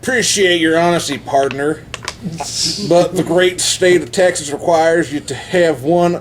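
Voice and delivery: lightly put-on Texas trooper accent; a hint of a Texas state trooper. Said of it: "just reading how they write the accent".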